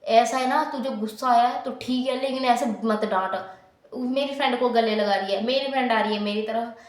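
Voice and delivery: Pinki getting bossy. Retold or imitated. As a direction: act the pushy supervisor. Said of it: "पिंकी मेरे को चौड़ी हो गई". (अकड़ के साथ डाँटती पिंकी)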